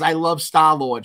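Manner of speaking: put-on slow, loud Mama Fox accent, r's dropped. Imitating daughter's crush on Star-Lord, Mama Fox accent. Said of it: "She kinda had the Mama Fox, uh, accent".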